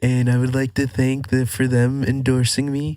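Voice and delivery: bad Donald Trump impression. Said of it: "that's a bad accent".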